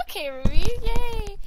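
loud, delighted cheer; cheering oneself on. Real, not acted. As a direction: whoop it out, rising high at the end. Cheers her own singing.

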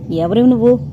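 firm, commanding question; ringing bronze voice. A narrator's reading. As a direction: sound out the question like a bell. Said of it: "కంచు కంఠంతో".

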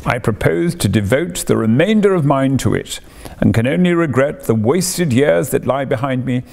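lightly voiced boastful Toad, eager; excited Toad. A touch of pompous excited Toad to Ratty. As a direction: Toad gushing to Ratty about his new passion. Toad's excited speech in story.

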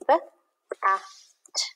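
"B, A, T" split into separate sounds; sounding out letters. Shown as a demonstration. Teacher writing the word, sounding out "B, A, T". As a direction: tap out "B, A, T" sound by sound. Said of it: "Bat has three sounds".

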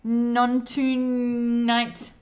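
threatening. A narrator's reading. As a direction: press the threat hard, stretching the final name. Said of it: "he threatens".

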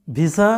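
ভিসা as bi-sa, hissed s; common mispronunciation. Shown as a demonstration. Teacher quotes what some students say, wrong pronunciation. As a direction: say ভিসা with plain s, bisa. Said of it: "তবে তোমরা".

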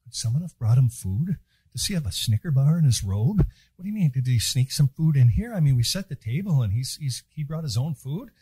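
mock bewildered chatter among the disciples; puzzled disciples. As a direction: play the confused disciples grumbling. Disciples squabbling over food.

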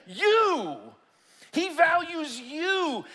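shouting. Real, not acted. Preacher's peak, shouted.

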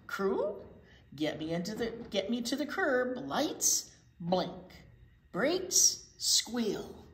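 a lightly voiced swaggering truck; boastful garbage truck. Reading to kids, a cocky garbage truck brags. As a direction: brag like a proud garbage truck.

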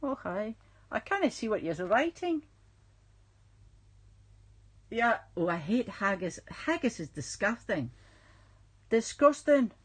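lightly hammed Scottish accent; put-on Scottish accent. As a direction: slip into playful Scottish. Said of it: "I go into these weird accents".

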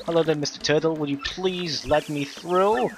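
polite high character voice. Acted. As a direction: play a prim, polite little character. Voicing polite character dialogue.

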